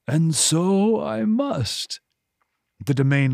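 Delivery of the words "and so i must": slow demon voice. A narrator's reading. Demon answers with mocking laughter.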